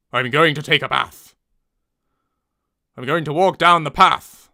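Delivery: a little bit of northern English; northern short vowels in path and bath; lightly northern; slight northern accent. Shown as a demonstration. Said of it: "Only a little bit of northern accent".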